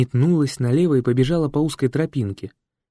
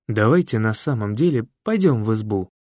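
falsely cheerful. Acted. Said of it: "фальшиво бодро предложил я".

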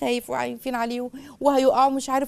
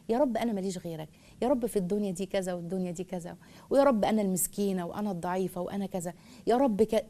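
humble broken prayer; 3 semitones lower, 5 dB quieter than usual. Shown as a demonstration. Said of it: "باب الذله والانكسار لله".

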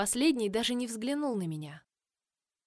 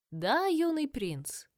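whispered; 5 semitones higher, much slower than usual. Acted. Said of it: "прошептала она".

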